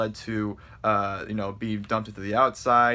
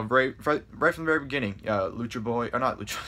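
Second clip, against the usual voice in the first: tripping over the words; stumble, restart, then catch the slip; excited stutter. Real, not acted. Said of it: "I kinda stutter and kinda mess up".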